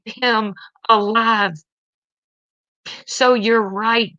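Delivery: holding back tears while begging to be heard; emotional, close to tears. Real, not acted. Mother of an addicted son pleading online, tearful. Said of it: "I'm sorry that this is making me emotional".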